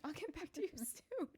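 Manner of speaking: high, soft joking auto-reply; singsong-high pretend away message; mock out-of-office message. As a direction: play an automated reply for laughs. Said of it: "that should be my out of office".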